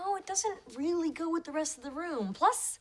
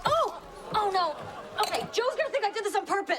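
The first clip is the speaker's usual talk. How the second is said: panicked dismay; 7 semitones higher than usual. Acted. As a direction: cry out at a disaster just caused. Spilled wine on the chair.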